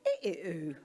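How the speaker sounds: imitated vowel-only speech, pitched low; Louis. Parent voicing Louis asking for swimming pool, imitated vowel sounds. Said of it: "he might say".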